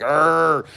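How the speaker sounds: imitated growl of frustration; playful retelling of a mad growl; mock angry growl. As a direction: give a drawn-out mock "arr" of anger. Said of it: "I've gotten mad at a creator".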